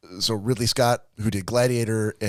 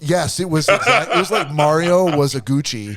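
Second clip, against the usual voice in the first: laughing; 5 semitones higher, 5 dB louder than usual. Real, not acted. Laughing agreement.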